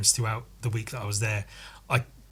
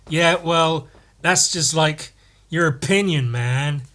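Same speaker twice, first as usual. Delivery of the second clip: Dude impression; 3 semitones higher, 3 dB louder, slower than usual. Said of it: "Like in The Big Lebowski".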